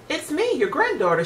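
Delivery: put-on a bright little girl at the door. A narrator's reading. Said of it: "she responded".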